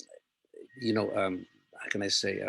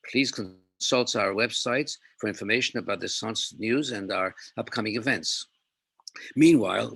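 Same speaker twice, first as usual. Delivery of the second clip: measured, declarative read-aloud welcome; formal welcome speech with firmly launched sentences; formal prepared statement; 3 dB louder than usual. Real, not acted. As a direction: read it out as an official address, phrase by phrase.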